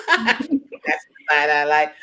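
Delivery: slow, laughing delivery; chuckling about a friend's side-eye. Real, not acted. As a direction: laugh your way through the words.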